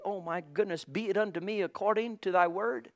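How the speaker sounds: softly voiced, gently sweet quote; sweetly. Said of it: "as Mary said so sweetly".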